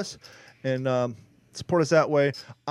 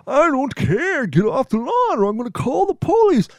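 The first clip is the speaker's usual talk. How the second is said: put-on much higher cranky old man voice, louder; grumpy old man; 10 semitones higher, 7 dB louder than usual. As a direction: shoo the kids off like a crotchety geezer. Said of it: "Don talking like an old man".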